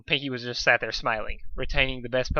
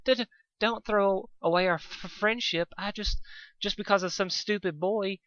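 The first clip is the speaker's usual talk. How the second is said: higher, softer, stammering mock sob; crying softly; 8 semitones higher than usual. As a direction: plead through pretend tears, voice breaking. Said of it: "crying softly".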